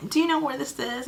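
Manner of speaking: hammed-up helpless stranger asking; dramatic. Asking the truck driver for help, hammed-up helpless and high. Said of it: "being real dramatic".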